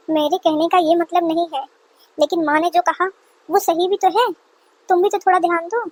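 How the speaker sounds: hint of a patient son's voice. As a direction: play the son settling his upset mother down. Son defends mother to wife.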